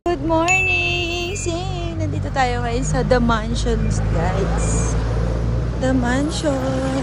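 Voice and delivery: excited vlog intro. Real, not acted. Vlogger announcing to viewers, loud and hyped. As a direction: present the place to viewers.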